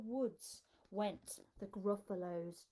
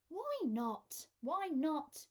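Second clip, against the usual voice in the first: higher, eager little-one voice; curious child voice; 5 semitones higher, slower than usual. Acted. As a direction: ask like a puzzled small child. Gruffalo's child asks her dad.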